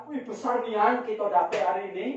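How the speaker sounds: mild mock yell of delight; retold excited shout. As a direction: call it out like a villager with a big catch. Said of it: "ada yang teriak".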